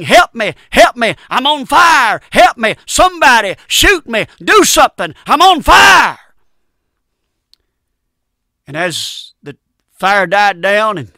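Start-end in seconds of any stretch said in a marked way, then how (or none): 0.0-6.2 high, loud screaming for help; dying scream. Retold or imitated. Dying trucker screams for help in the flames. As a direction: scream it as the fire takes him. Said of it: "died saying".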